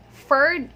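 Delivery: "ferd" said loudly with an F; wrong F syllable. Shown as a demonstration. Teacher isolating the wrong syllable, loud F sound. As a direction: punch "ferd" out alone with F. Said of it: "it's not".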